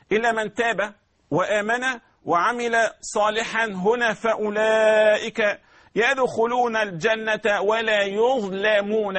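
slow careful Quranic recitation; correct recitation. Shown as a demonstration. Teacher models correct pronunciation, slow. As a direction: recite يظلمون slowly with a clear ظ. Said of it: "هكذا النطق الصحيح".

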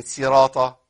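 «صراط» slowly, with a light s; sin for sad. Shown as a demonstration. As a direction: open «صراط» on a thin س instead of heavy ص. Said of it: "لكن صراط بالسين". («صراط» بالسين)

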